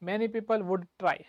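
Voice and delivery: measured, word-by-word teacher dictation; slow dictation. Shown as a demonstration. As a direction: say it slowly for students to copy. Dictating the English translation to class.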